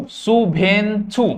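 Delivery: शुभेंछु slowly, split into three syllables; slow model pronunciation. Shown as a demonstration. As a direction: stretch out शुभेंछु for learners to copy. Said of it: "बोलो बार बार मेरे संगे".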